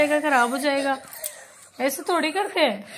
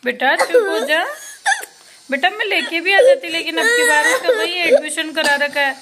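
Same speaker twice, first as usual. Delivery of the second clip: motherly pleading; 4 semitones higher, 5 dB louder than usual. Real, not acted. Mother explains sister's absence to crying son, insistent pleading.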